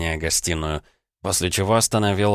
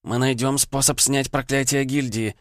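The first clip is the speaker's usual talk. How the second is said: put-on higher, slow, resolute young woman; determined girl; 8 semitones higher than usual. A narrator's reading. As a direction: promise it firmly as Vanda. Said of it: "решительно проговорила она".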